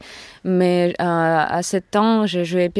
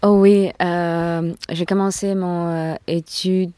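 foreign accent in French. Real, not acted. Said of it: "Désolée, mon français".

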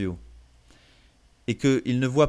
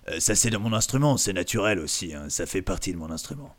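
low voice held; 3 semitones lower than usual. Shown as a demonstration. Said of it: "je pourrais faire une voix comme ça".

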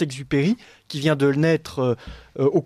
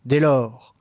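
poem recitation. Acted. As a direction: recite it like a stage role. Reads the poetic dialogue aloud.

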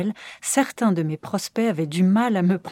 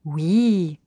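kind yes; 3 semitones lower than usual. Shown as a demonstration. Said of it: "je dis un oui bienveillant".

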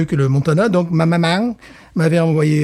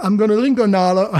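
a hint of a Texan accent; Southern US accent; 6 semitones higher than usual. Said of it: "l'accent du Sud qui revient".

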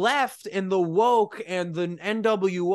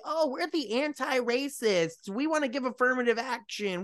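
higher, slowed mock do-gooder voice; mocking imitation; 4 semitones higher than usual. Podcaster parodies self-declared anti-racists to co-host, mocking imitation.

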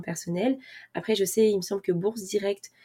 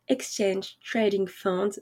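slow, heavily French-accented English; much slower than usual. Shown as a demonstration. Explaining ETFs to viewers, in slow French-accented English. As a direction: say it slowly in a self-mocking French accent. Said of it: "Vous notez mon accent anglais, euh, exceptionnel".

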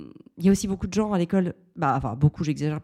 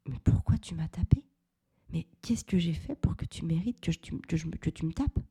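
hurt; 3 dB quieter than usual. Retold or imitated. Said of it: "je lui fais ce regard-là".

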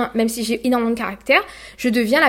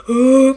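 a low, loud groan from labour; imitated deep labour groan; 3 semitones higher, 9 dB louder than usual. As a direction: let out a heavy birthing groan. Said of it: "ma voix était hyper rock".

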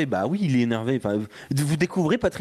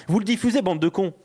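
raised, exasperated jab at the hosts; angry outburst; 5 semitones higher than usual. Real, not acted. Ranting at fellow pundits, angry and raised. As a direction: snap at them in real annoyance. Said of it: "c'est un homme en colère là".

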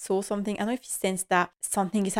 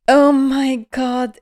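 loud oh my God; 5 semitones higher, 10 dB louder, much slower than usual. Real, not acted. Reacting to a painful line.

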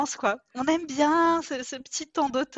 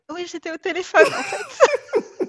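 laughing excuse; 8 semitones higher, 8 dB louder than usual. Retold or imitated. Mocking a lame excuse.

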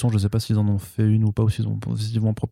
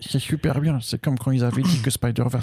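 high-pitched mock fan enthusiasm; gushing fans' voice; 4 semitones higher than usual. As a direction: put on the voice of wowed fans. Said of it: "vous ferez".

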